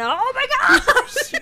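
high cry rising sharply; hammed-up pain through laughter; mock agonized exclamation. Imitating actor hit by pain, mock anguish.

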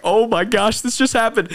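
excited exclamation. Retold or imitated. After his knee is healed, excited shout. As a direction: burst out in joyful amazement. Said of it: "And I'm like".

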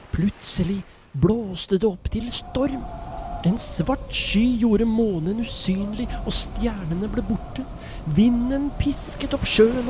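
put-on lively storyteller voice reading to children; story narration. A narrator's reading. Storyteller reading a Bible story to children, lively narration. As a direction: tell it like a bedtime Bible story.

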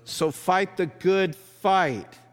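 high, loud exhortation; impassioned apostle urging the church; Paul's rallying cry. Retold or imitated. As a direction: fire up the brothers and sisters. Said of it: "Paul would jump in and go".

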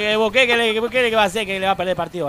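a loose, put-on Paraguayan accent, trailing away. To the Mexican friend, griefstricken in a mock Paraguayan accent. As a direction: play a mournful Paraguayan fan. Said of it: "no me sale el paraguayo".

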